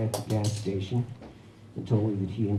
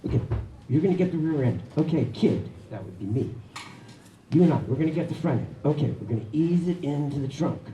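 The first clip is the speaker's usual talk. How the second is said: barking directions; 5 semitones higher, faster than usual. Retold or imitated. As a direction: boss the helpers around like a gruff biker. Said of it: "starts barking directions".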